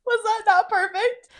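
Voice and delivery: raspy put-on lady voice; smoker's rasp. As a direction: keep the smoky character voice going. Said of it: "make fun of us for talking like this".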